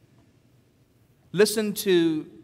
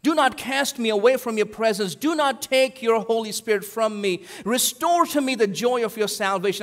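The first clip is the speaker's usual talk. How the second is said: raised, earnest plea to God; pleading prayer; 5 semitones higher than usual. Retold or imitated. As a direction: pray it like a broken man begging. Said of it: "a real penitence prayer".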